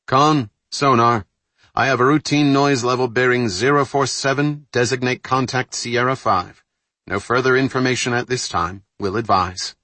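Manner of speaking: rattly intercom voice; through a blown speaker. Acted. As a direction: sonar report over a speaker. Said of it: "The bulkhead-mounted speaker rattled".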